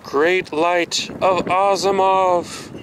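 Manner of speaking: solemn oracle plea. Pretend.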